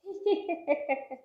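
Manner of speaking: short, soft snickering laugh; mocking snicker. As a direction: snicker at his misery. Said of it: "खी खी खी खी खी हंस रहे हो".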